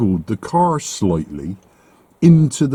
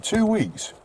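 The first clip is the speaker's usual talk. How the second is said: two weeks leaps much higher in disbelief; exasperated repeat; 10 semitones higher, 5 dB quieter than usual. Real, not acted. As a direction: fling two weeks up high, fed up.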